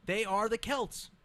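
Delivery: "They are the Celts" slow and high-pitched; insistent. Real, not acted. Co-host insisting on a word, "They are the Celts" slow and high. Insisting on his point when challenged.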